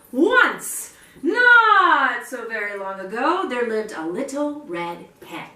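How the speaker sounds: put-on lively read-aloud for children; storybook opening. A narrator's reading. Reading to children, bright storybook opening. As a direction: open the tale like a children's storyteller.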